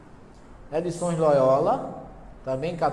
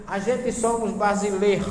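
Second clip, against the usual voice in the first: imitating Gade's foreign accent; 3 semitones higher, 4 dB louder than usual. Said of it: "Aí fazia assim".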